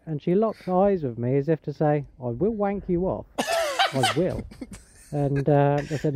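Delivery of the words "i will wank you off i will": imitated Thai lady accent, rising high. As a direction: insist in a put-on Thai accent. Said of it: "was a Thai lady".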